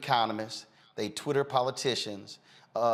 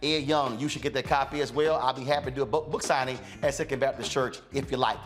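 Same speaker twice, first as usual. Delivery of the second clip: higher, energetic promo read; announcer read; 4 semitones higher than usual. Acted. Host pitching the app and donations to viewers, upbeat announcer read. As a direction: rattle off the plugs like an ad. Host reads closing plugs.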